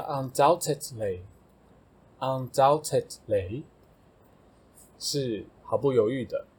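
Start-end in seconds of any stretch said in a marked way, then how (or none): 0.0-3.6 undoubtedly said twice, slowly, syllable by syllable; teacher models undoubtedly for the class; slow model word. Shown as a demonstration. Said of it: "下一个undoubtedly".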